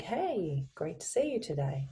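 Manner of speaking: upbeat greeting with the pitch lifting on HEY; rising inflection. Shown as a demonstration. Coach showing lively inflection to colleague, upbeat rising greeting. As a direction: let HEY swing up, friendly. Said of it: "if it goes up".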